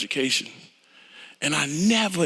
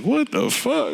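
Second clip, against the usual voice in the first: mock shock; 10 semitones higher, slower than usual. Retold shocked reaction.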